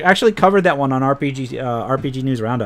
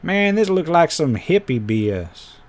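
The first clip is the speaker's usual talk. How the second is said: Texan accent; 3 semitones higher than usual. Shown as a demonstration. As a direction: redo it as a Texan, not a full accent. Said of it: "I need to say that in a more Texan accent".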